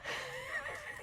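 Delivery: giggling high and breathy; high laugh. Real, not acted. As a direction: burst into giggles. Laughing at own story.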